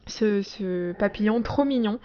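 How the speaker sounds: speaking through hiccups; hiccuping between words. Real, not acted. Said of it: "j'ai le hoquet".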